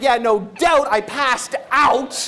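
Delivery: slow, laughing deadpan; laughing punchline. Retold or imitated. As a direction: laugh through the confession.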